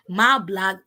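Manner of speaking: slow, low New Orleans drawl; a rapper. Retold or imitated. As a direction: draw out a lazy New Orleans rap line, low. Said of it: "when a rapper was saying churns".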